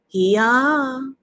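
high, loud drawn-out animal call; sheep in chorus. A narrator's reading. Sheep answering roll call, high long bleat. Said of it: "answered the sheep all together".

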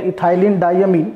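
"ethylene diamine" said slowly, each part distinct; pronunciation model. Shown as a demonstration. Teacher showing students how to pronounce "ethylene diamine", slow pronunciation model. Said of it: "हम इसको क्या pronounce करते हैं".

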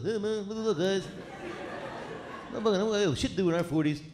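lightly voiced impression of a buddy; mocking Narnia. Comic teasing his friend from the stage, in a mock whine. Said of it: "I love making fun of Narnia".

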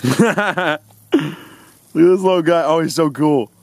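high, giggling; laughing delight. Real, not acted. Showing girlfriend the new puppy, laughing. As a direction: laugh through the words.

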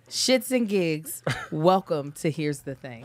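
Shits and Gigs said very slowly, each word apart; slow model line. Shown as a demonstration. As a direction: spell out the intro slowly. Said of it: "I want you to say".

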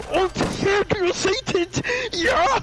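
very high, hammed-up German accent; badly faked German accent. Hitler facing Hercule Satan, badly faked German accent. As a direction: shout it in a clueless mock German accent. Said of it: "I don't know how Germans talk".

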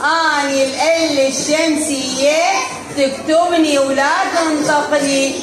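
put-on measured recitation for children, stretched phrase endings; lightly voiced sun-letter lam. Teacher speaks as the sun lam to her pupils, lightly acted recitation. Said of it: "ايش تقول؟".

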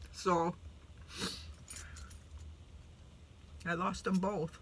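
quiet, tearful telling of loss; holding back tears over a lost uncle; real quiet sorrow near crying; tearful grief. Real, not acted. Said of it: "Sorry about all that blubbering before".

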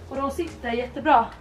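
speaking between sandwich bites; talking while chewing. Real, not acted. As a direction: mouth partly full of food. Seen 1: Sandwich held at mouth early; likely chewing, later plainly just talking.

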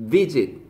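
"visit" with a firm first syllable; stress on first syllable. Shown as a demonstration. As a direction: punch the VI of "visit". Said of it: "세게 강하게 얘기하라고".

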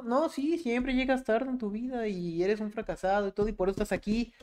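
high, pushy berating voice; confrontational coach. Retold or imitated. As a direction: scold them like a pushy coach.

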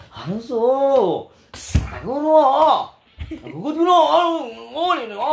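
high, swooping fake Korean chatter; mock Korean accent. Host joking about Korean classmates, mock Korean accent. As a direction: joke around in pretend Korean intonation. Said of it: "karang murag nag-joke-joke lang ba".

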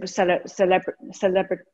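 tripping over the word celebratory; struggling to get the word out; stumbling over a word. Real, not acted. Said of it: "can't say the word".

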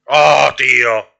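a long exasperated cry at the screen; drawn-out frustrated exclamation; loud drawn-out groan. Real, not acted. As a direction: stretch it out slow and loud in dismay. Groaning at bad game luck.

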